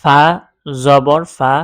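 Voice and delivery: slow, measured syllable-by-syllable recitation; spelling drill. Shown as a demonstration. Teacher showing learners double zabar, slow spelling chant. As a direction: spell it out slowly, holding each letter name.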